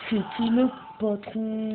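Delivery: high, slow, drawn-out boast; playful taunt. Pretend. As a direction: stretch it out high like a cocky taunt. Taunting the game's enemies, repeated. (provocation fanfaronne, aiguë et traînante)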